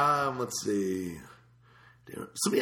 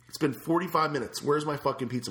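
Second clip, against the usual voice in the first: mock angry, raised voice; angry demand; 4 semitones higher than usual. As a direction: demand the pizza, fed up. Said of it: "I was angry".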